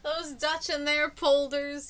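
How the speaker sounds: mock grumble. Mock scoffing at the Dutch.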